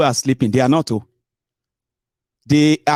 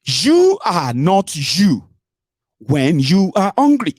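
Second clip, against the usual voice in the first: quoting an ad slogan; much slower than usual. Retold or imitated. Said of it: "They say".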